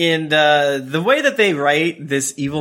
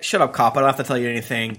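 villain voice; 4 semitones lower, faster than usual. Retold or imitated. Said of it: "full villain mode".

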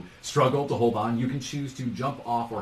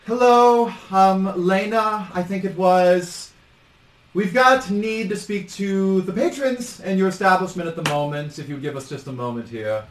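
loud, higher official voice, slow at first; visiting administress; 7 semitones higher, 5 dB louder than usual. Acted. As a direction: announce yourself at the door, then ease down. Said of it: "you hear her say".

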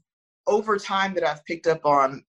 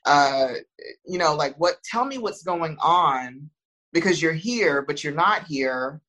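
soothing voice; 2 semitones lower than usual. Retold or imitated. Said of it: "my voice is very soothing".

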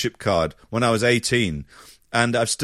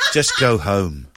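laughing retelling; 4 semitones lower, slower than usual. Retold or imitated. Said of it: "she whispered in my ear".

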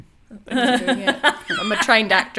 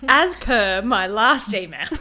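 politely impatient; 5 dB louder than usual. Acted. Mock corporate email voice.

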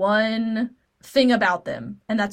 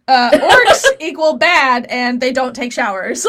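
laughing; 6 dB louder than usual. Real, not acted. Laughing through the list.

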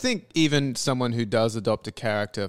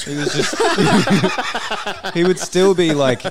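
laughing through the words; breaking up laughing mid-sentence; 7 semitones higher, 6 dB louder than usual. Real, not acted. Laughing while retelling.

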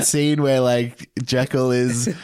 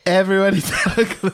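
higher put-on reading voice; announcer voice; 6 semitones higher than usual. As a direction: read it out grandly. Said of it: "Can you please read what I wrote here?".

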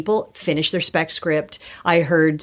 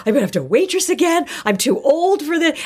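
retold panic; 9 semitones higher than usual. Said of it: "And I was, like, panicked".

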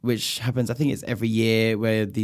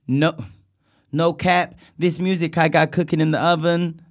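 singer impression; 3 semitones higher than usual. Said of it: "trying to talk like Chris Breezy".

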